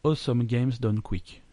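French speaker's clumsy English accent. Real, not acted. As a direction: say it slowly with a rough English accent. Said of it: "j'ai un accent anglais".

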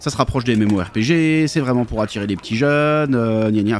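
imitated complainers, line endings dragged out; lightly hammed-up moaning of discontented fans; mock grumbling. Player imitating old grognards unhappy with the new edition, mock grumbling. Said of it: "les grognards, hein, qui étaient pas contents".

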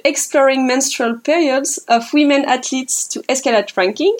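English acronym read with a heavy French accent; self-mocking French accent on the English words; reading English words in a playful French accent. Real, not acted. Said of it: "avec mon super accent anglais".

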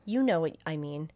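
low, quiet and even machine voice; a hint of a cold, polite AI; calm computer voice. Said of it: "And Hal says".

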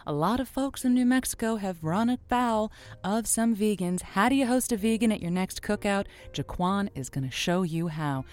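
honeyed late-night host, then a promo read; radio sign-off and promo. Acted. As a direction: tease the next show like a radio ad. Host signs off, reads promo.

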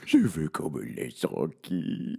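put-on high whining toddler king; whiny baby king. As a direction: whine like a sulky child. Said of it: "Il réagit comme un bébé".

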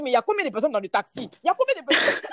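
high-pitched, baffled questioning in a put-on voice; shocked taxi driver. Taxi driver counting voices from his lone passenger, shocked. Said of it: "Il est choqué, il est choqué".

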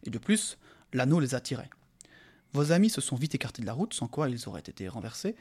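voix de conteur posée; lecture de récit. A narrator's reading. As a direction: lire le roman à voix haute. Reads the novel aloud. (narration calme et posée)

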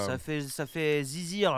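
Claire's catchphrase. Retold or imitated. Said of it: "Comme dirait Claire".

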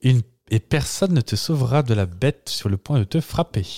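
deliberate horror-tale reading; spoken lyric recitation. Acted. Host reciting translated song lyrics, dramatic spoken recitation. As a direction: recite it as a measured dramatic warning. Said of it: "je les restitue parlées".

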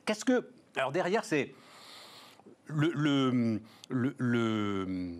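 talking with a mouth full of meringue; chewing sticky meringue. Real, not acted. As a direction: speak through a sticky mouthful. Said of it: "c'est que ça colle aux dents".

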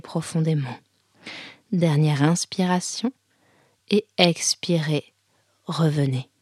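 calm guiding voice with spaced-out phrases; yoga teacher guiding breath and posture; guided yoga instruction. Real, not acted. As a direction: lead them through the movements, pausing between cues. Guides a yoga nidra session.

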